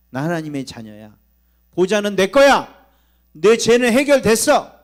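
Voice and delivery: bold declaration. Shown as a demonstration. Pastor shows the flock how to declare, rising to a shout. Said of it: "여러분 선포하세요".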